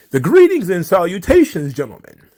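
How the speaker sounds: mock-pompous highbrow greeting; bloviating voice. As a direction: puff it up like a grandiloquent speaker. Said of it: "Michael Eric Dyson bloviating voice".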